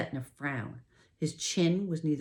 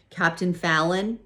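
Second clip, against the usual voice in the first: raised call, higher and louder; 5 semitones higher, 8 dB louder than usual. A narrator's reading. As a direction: call his name across the room to wake him. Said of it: "I called louder".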